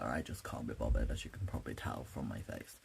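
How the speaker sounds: drowsy, low mumbling voice; sleepy, barely awake delivery; half asleep. Real, not acted. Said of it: "Sorry, I am half asleep".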